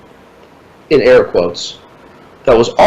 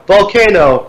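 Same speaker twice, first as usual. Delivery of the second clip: tossed off, a bit higher and carefree; offhand shrug; 6 semitones higher than usual. Retold or imitated. Clerk shrugging off the cancelled flight, offhand. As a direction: say it like it's nothing. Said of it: "He said it like".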